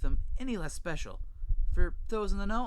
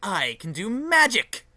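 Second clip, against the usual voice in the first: excited; 5 semitones higher, 8 dB louder, slower than usual. Acted. Showing off princess magic.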